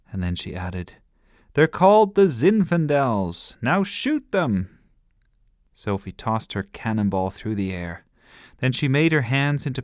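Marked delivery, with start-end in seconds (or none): 1.5-4.7 high, loud, commanding; pirate captain orders. A narrator's reading. Girl captain orders brother to shoot enemies. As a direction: order the crew to fire. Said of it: "Here come the attackers".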